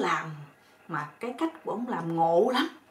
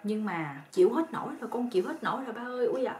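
retold cries of pain; 4 semitones higher than usual. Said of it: "cổ cũng la á á".

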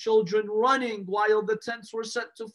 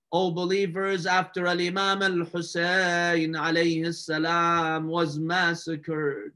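slow, drawn-out lament; mournful sermon recitation; slower than usual. Acted. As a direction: stretch the line endings like an elegy.

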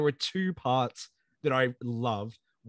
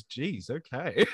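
slow meek reply; much slower than usual. Retold or imitated. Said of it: "Dale in the background just goes".

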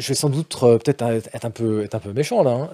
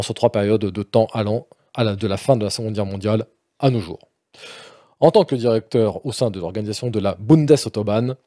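deadpan, lower formal read; mock serious reading; 4 semitones lower than usual. Host reading the game description with mock austerity. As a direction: read it with stern rigour. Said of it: "avec toute la, tout, tout le sérieux et la rigueur".

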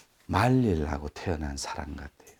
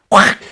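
angry burst; 13 semitones higher, 15 dB louder than usual. Shown as a demonstration. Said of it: "뭐 이런 거".

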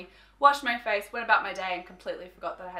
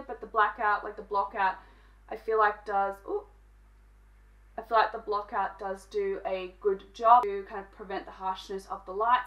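muffled behind rigid mask; speaking inside plastic shield; through a face mask. Real, not acted. Seen 0: Rigid white LED mask covers whole face, including mouth, throughout.

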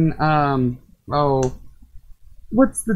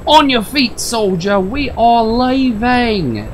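army commander; 3 semitones higher, 4 dB louder, slower than usual. Acted. Commander rallying a soldier, barked order. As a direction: call it out like a drill sergeant.

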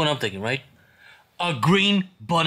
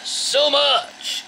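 drawn-out excited shout; much slower than usual. Acted. Mascot's recorded pitch, drawn out.

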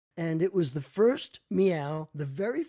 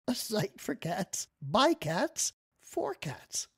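slow whispered aside; 3 semitones higher, slower than usual. Pretend. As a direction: breathe it slowly like a secret joke. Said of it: "whispered joke punchline".

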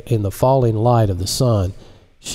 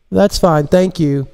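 woman voice; 8 semitones higher, 3 dB louder than usual. Acted. Marise replies.

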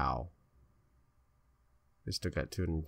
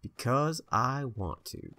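put-on higher, slow, childish whine; petulant drawl; 6 semitones higher, slower than usual. Player mock-whining his reason to the viewers, a slow, higher petulant drawl. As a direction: stretch it out like a spoiled kid.

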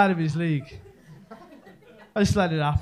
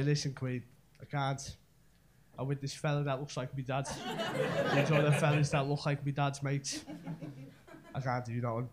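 low, hushed excuse; mock-discreet aside, soft and low; quiet refusal; 5 semitones lower, 9 dB quieter than usual. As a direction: let her down softly, voice dropped. Acts out politely turning down woman.

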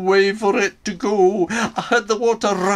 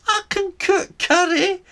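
eager offer; 14 semitones higher, 4 dB louder than usual. Retold or imitated. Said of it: "I asked".

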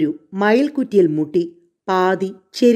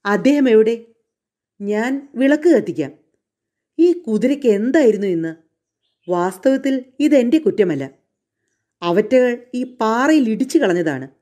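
a hint of a raised, anxious coachman; flustered coachman; 4 semitones higher than usual. Coachman excusing himself to Emma after the crash, lightly raised and hurried. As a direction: defend yourself, a little higher and hurried.

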